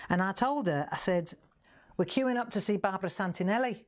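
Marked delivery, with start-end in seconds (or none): 2.0-3.8 mild imitated Scouse; lightly put-on Liverpool accent, rising at the end; Hilda. Customer telling her friend about the queue, mild Scouse. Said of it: "Scouse, Liver-, Liverpool".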